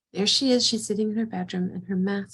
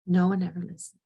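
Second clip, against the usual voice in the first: put-on childlike. Shown as a demonstration. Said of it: "You hear the, the childlike quality to that".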